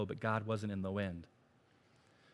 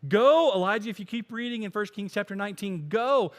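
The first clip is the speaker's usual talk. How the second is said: loud, high command; commanding God; 8 semitones higher, 9 dB louder than usual. Acted. Preacher voicing God sending Elijah, loud commanding go. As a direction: send him off with force. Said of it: "God said to Elijah".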